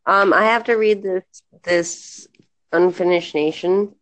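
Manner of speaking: stuffy nasal voice. Real, not acted. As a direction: talk through a blocked nose. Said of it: "I notice I sound nasally right now".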